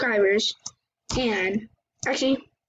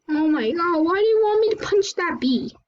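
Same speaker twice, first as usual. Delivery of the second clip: mock shock; 7 semitones higher than usual. Answers the whispered dare.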